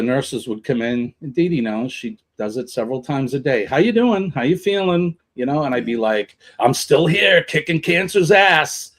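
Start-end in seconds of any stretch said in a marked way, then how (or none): 3.6-5.2 higher-pitched imitation of a nurse; nurse checking in. Nurses coming in several times a day, lightly imitated check-in. 6.6-8.9 retold defiant comeback, a little raised. Patient answering the nurses, mildly defiant.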